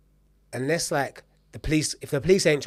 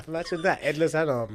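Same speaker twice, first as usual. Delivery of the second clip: laughing through the words; giggling at the dark joke; real laughter while speaking; 4 dB quieter than usual. Real, not acted. Joke about lost arm.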